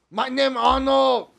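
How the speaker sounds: slow, lightly put-on Arnold accent; Arnold impression. Showing friends his Arnold, slowly. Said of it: "I could do the Arnold".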